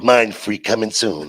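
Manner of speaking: low, slow, loud announcement; slow sign read-out. Retold or imitated. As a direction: read it out like a billboard, drawn out. Reads out the statue's sign.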